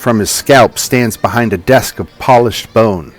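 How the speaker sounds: slow, measured scene-setting narration. A narrator's reading. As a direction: paint the room slowly for the players. Game master describes the room.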